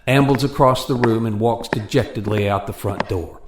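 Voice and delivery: dramatic radio narration over music; story narration. A narrator's reading. Narrator closing the skit for listeners, solemn and dramatic. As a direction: tell the tale gravely, building to the question.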